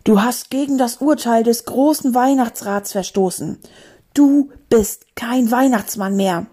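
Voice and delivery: stern, menacing pronouncement; accusing, weighty delivery; threatening. Acted. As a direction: pass judgement in a threatening voice. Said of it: "drohte die Stimme".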